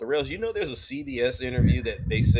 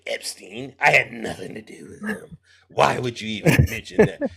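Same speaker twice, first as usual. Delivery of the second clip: Donald Trump impression; 3 dB louder than usual. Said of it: "is that your Trump?".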